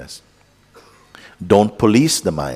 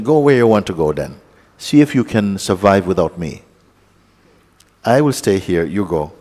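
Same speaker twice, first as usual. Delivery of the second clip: louder, firm dismissal of the attention; telling off attention; 5 dB louder than usual. Pretend. Teacher voicing a talk to his own attention, firm and louder. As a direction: shoo the attention away, loudly. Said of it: "Say to the atten".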